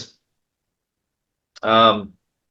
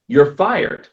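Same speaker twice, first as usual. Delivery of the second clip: higher, mock-upset snap of a line; retold upset; 7 semitones higher than usual. Mom fires her son over the car, mock upset. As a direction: fire him in a hammed-up huff. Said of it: "she gets really upset".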